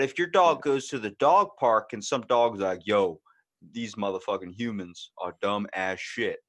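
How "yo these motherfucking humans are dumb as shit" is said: slow, lightly deepened dog voice; deep dog voice. Pretend. One dog to another at the park, deep voice. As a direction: put on a deep voice, drawn out. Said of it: "That's my deep voice".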